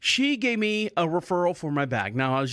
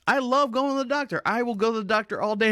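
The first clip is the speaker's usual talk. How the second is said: sarcastic; 5 semitones higher than usual. Real, not acted. Sarcastic claim.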